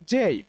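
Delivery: জেই said as "jay" with a gliding ey, not the flat জে; correct pronunciation. Shown as a demonstration. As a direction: carefully say জেই with the ey glide. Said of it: "এর উচ্চারণ হচ্ছে". (জেই উচ্চারণ স্পষ্ট করে)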